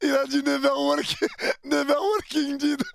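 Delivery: cracking up mid-sentence; laughing while repeating the joke. Real, not acted.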